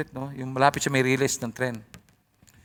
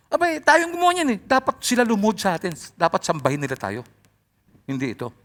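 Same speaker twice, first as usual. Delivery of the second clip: indignant carver; 5 semitones higher than usual. Retold or imitated. Acted carver demanding worship.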